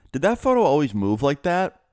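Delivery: mildly mystified, lifted voice; mom's puzzled question. Retold or imitated. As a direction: retell her wondering question, rising at the end. Puzzled mom asks about photo.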